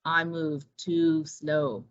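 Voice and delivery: put-on low and slow, a sleepy old turtle; unhurried low turtle; slow tortoise voice. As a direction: drag each word like a tired tortoise. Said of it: "said Tortuga".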